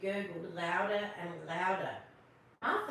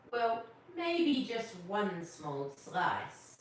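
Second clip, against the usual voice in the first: slow, drawn-out hesitant Santa; much slower than usual. Acted. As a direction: stretch it out as tempted Santa. Santa accepts slowly.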